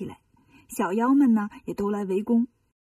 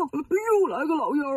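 quick, startled blurt; 3 semitones higher, faster than usual. Acted. Bajie startled by the old man, a quick comic blurt. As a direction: rush it out in comic alarm. 八戒吓了一跳.

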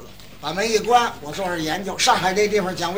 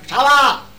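put-on Tianjin accent; 5 semitones higher, 9 dB louder than usual. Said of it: "我说：".

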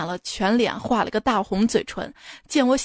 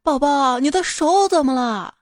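a bit higher, louder worried call; alarmed mother; 4 semitones higher, 4 dB louder than usual. Retold or imitated. Mother startled to see her daughter's cut finger, worried. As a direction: ask in a startled, worried rush. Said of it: "我看见就大吃一惊".

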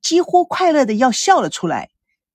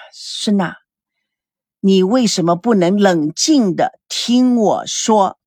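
slow, lower, holding back anger; forced calm; 4 semitones lower, slower than usual. Acted. He pleads with his fiancée, slow and restrained. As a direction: keep it slow and level to stay calm. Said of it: "试图让自己不要发怒".

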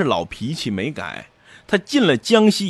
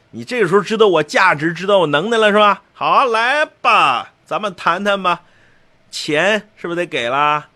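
playful bargaining; 3 semitones higher than usual. Retold or imitated. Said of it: "开始跟朝廷撒娇".

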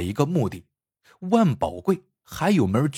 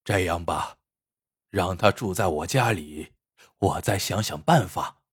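low, soft, deliberate words after long thought; slow and measured; 6 semitones lower, 3 dB quieter than usual. A narrator's reading. The old doctor, after pondering, quietly gives in to the visitors, low and slow. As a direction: weigh each word, low and soft. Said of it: "缓缓说道".

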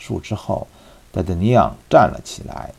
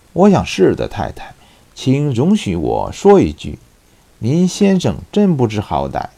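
joking; 4 semitones higher, 3 dB louder than usual. Acted. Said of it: "开玩笑般地说了一句".

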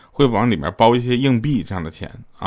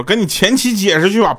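mock angry retort; 10 semitones higher, 4 dB louder than usual. Wife dismisses husband before slapping.

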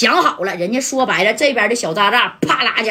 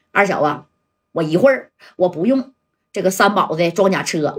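low, grim challenge; 3 semitones lower than usual. Acted. Jia Dai challenges Er Xiao.

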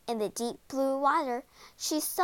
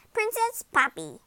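higher, lightly voiced frog; croaking frog; 7 semitones higher than usual. A narrator's reading. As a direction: address the princess as a frog. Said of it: "he croaked".

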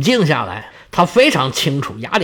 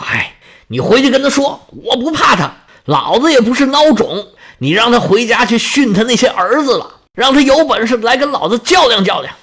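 defiant, a bit higher and pushier; growing anger; 4 semitones higher than usual. Acted. Poseidon tells the messenger to defy Zeus, blustering angrily. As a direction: bluster like a wronged elder brother. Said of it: "波塞冬是越想越气".

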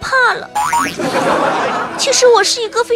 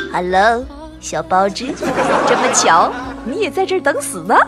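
embarrassed greeting; 6 semitones lower, 3 dB quieter than usual. Acted. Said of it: "不好意思地说".

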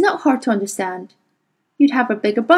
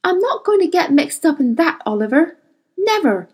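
high, indignant protest; heated refusal; 8 semitones higher than usual. Acted. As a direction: refuse in outrage.

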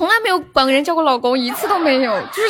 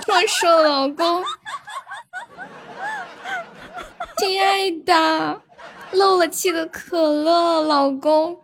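撒娇十连. Pretend. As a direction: sweetly coax each husband, half-joking. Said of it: "撒娇十连". (撒娇的语气，拖长尾音)

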